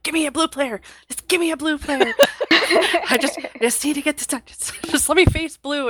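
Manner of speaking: high-pitched, giggly mock pleading; playful high-voiced plea, breaking into laughs; imitated funny pleading. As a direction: mimic a friend begging, high and laughing. Acted quote of excited friend.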